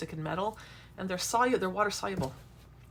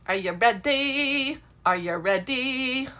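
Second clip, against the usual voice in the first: excited; 6 semitones higher, 6 dB louder, slower than usual. Real, not acted. Hyping viewers before the big reveal.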